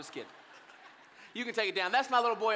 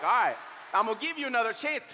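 mock warning. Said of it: "So I was like".

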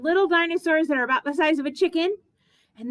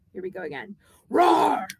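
normal talking voice

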